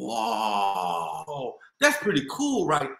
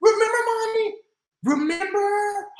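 high, louder eager pleading; eager plea; 10 semitones higher, 3 dB louder than usual. Acted. Girl reminds mom of grandpa's promise, eager. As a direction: coax mom to remember.

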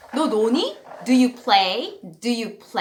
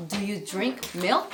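slow drill; 2 semitones lower, 4 dB quieter, much slower than usual. Shown as a demonstration. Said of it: "너 우유 마시니?".

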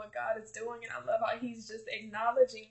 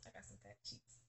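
giggly; 14 semitones lower, 24 dB quieter than usual. Real, not acted. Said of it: "my cheeks hurt".

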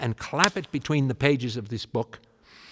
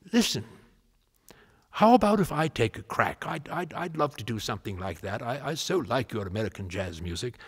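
a hint of an excited old English composer; English gentleman voice. Elgar voiced offering to help.

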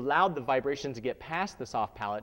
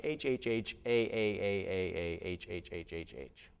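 breathy ha spelled out; 6 semitones lower, 4 dB quieter than usual. Shown as a demonstration. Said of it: "if it was written out in letters".

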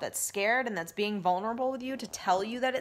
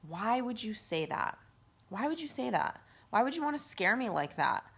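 lovingly; 2 semitones higher than usual. Pretend. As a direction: ask your own ego kindly, like a caring parent. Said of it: "really lovingly say to that part of yourself".

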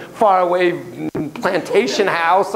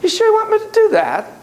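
high, teasing Irish brogue; the spirit asks with a sly Irish lilt; mock Irish spirit asking the class, in a high Irish brogue; spirit's Irish brogue; 3 dB louder than usual. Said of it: "terrible brogue".

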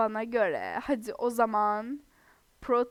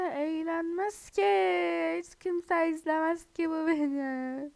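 hammed-up whine that nobody will watch; whiny lament; 4 semitones higher than usual. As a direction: drag every word out like a sulking kid. Whiny self-pitying lament to viewers.

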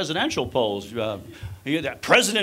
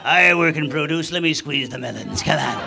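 rowdy woman at a strip show; 4 semitones lower than usual. Retold or imitated. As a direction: cheer on the dancer with a bill in your teeth.

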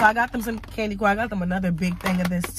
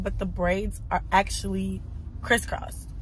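whisper; 2 semitones lower, 8 dB quieter than usual. Real, not acted. Showing braids on camera.

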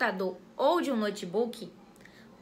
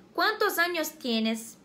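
Spanish question; 3 semitones higher, slower than usual. Shown as a demonstration. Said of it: "Outro exemplo seria".

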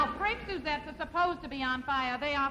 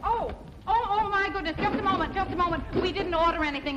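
louder, higher flustered surprise; 4 semitones higher, 4 dB louder than usual. Acted. Wife surprised by room service, flustered excitement. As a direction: caught off guard by a delivery at the door.

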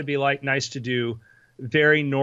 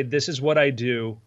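slow dictation example; 4 semitones lower than usual. Shown as a demonstration. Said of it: "what I want you to say".

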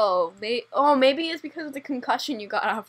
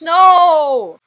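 loud, higher no; loud protest; 5 semitones higher, 12 dB louder than usual. Real, not acted. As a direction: shout it to stop them. Protesting loudly.

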